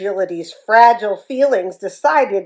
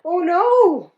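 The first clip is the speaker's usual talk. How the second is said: dismay; 8 semitones higher than usual. Acted. Bully realizes.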